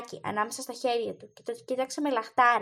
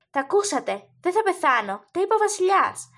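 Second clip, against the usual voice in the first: put-on joyful boy; 5 semitones higher, 4 dB louder than usual. A narrator's reading. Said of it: "με πρόσωπο γεμάτο ενθουσιασμό".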